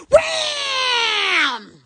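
breathy unvoiced "Wham!"; hushed comic impact noise; whispered wham. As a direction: whisper it like a sound effect. Dramatic sound-effect exclamation.

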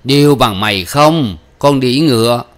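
mildly acted angry father; scolding father. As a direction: scold the daughter for lying. Father scolds lying daughter.

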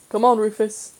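a mild call across the pavement. Acted. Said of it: "Great Uncle Mary called".

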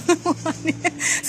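high, loud burst of laughter; bright laugh. Real, not acted. Guide laughing at a lottery-number joke, loud laugh. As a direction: laugh out at your own joke.

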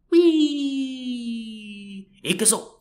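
high, gleeful battle cry; excited cheer. Pretend. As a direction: whoop like charging into the fray. Playful cheer diving into history.

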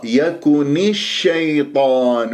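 slow recitation, short i on the end of يكون; drawn-out tajweed demonstration of يكون الشيطان; clear kasra on the nun. Shown as a demonstration. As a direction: link يكون into الشيطان with a clean "i". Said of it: "بهذه الطريقة أنت جبت كسرة النون".

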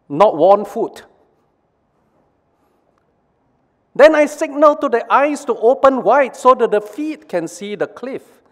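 high, aggrieved complaining voice; complaining brain. Acted. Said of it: "Brain one".

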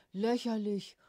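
loud indignant growl. A narrator's reading. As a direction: throw the word out, offended and loud. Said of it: "grollte er". (laut grollend, empört)

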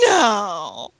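drawn-out mock cry; imitated dismayed shout; retold cry of no. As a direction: wail it in protest. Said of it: "all I could say was".

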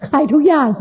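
amused echo, laughing; laughing repeat. Real, not acted. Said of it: "ชอบคำนี้".

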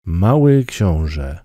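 slow, measured title read; title announcement. A narrator's reading. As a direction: announce the book slowly. (powolna zapowiedź tytułu)

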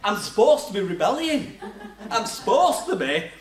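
chuckling through the words; amused disbelief, laughing; self-mocking with laughter; laughing at himself. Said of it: "And I'm thinking".

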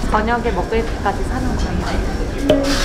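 muffled behind cloth mask; speaking through a face mask. Real, not acted. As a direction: mouth covered while talking. Seen 1: White face mask covers mouth and nose throughout; car references maskless.

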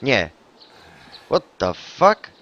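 ordinary talk, nothing marked

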